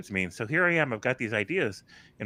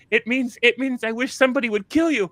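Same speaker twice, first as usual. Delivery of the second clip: retold laughing; 13 semitones higher, 3 dB louder than usual. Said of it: "when he finally caught his breath".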